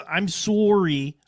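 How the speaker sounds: slow, drawn-out sorry with a rounded "oh" vowel; rounded "soh-ree". Shown as a demonstration. Showing how they supposedly apologize, sorry said slowly as "soh-ree". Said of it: "I don't say sorry".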